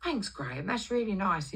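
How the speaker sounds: high lilting gratitude; butter up the boss; imitated sugary thank-you; sweet thanks.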